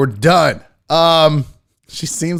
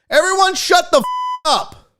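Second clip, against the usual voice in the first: high mock shout with the swear bleeped; bleeped order; 13 semitones higher than usual. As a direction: repeat the order, bleep over the curse. Repeats it with a bleep.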